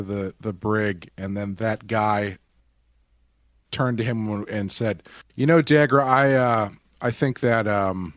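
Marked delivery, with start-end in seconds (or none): 5.3-8.1 halting speech with ums and restarts; stuttering, unsure of himself. Acted. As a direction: lightly imitate someone fumbling for each phrase. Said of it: "exact same stuttering".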